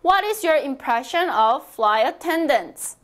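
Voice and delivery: slow, clear model sentence for repeating; teacher reading aloud slowly for practice. Shown as a demonstration. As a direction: read it slowly so students can follow. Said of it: "소리 크게 내어주세요".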